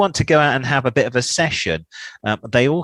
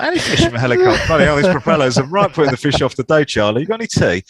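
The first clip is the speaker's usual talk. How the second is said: much higher, fast, hammed-up English voice; silly Pom voice; 6 semitones higher, 5 dB louder, faster than usual. Mocking himself as a clueless English tourist, high and squeaky. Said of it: "And I was like".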